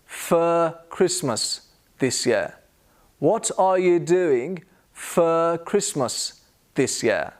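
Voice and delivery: "For" said as "fuh", no r; slow teacher's model with "for" as "fuh"; measured, spaced words, weak "for"; schwa in FOR. Shown as a demonstration. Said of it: "move on to the word for".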